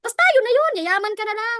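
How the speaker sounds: loud, high hype; excited. Shown as a demonstration. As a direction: pump the crowd up. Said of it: "papatay-patay ka". (sigaw na may gigil)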